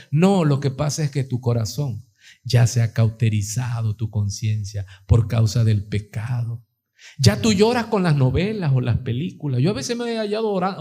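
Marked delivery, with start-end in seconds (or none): none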